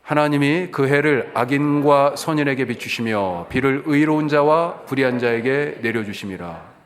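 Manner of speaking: slow, measured recitation; slow scripture recitation; scripture recited together. Shown as a demonstration. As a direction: read the verse aloud slowly with the congregation. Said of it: "같이 해봐요".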